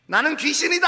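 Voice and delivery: put-on a light, laughing child's ghost voice; playful kid ghost. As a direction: spook your little sister in a game. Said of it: "이러고 쫓아다니는 거예요".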